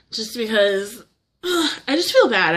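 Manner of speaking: choked up, fighting tears; crying. Real, not acted. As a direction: voice breaking into tears. Upset, talking about her dad.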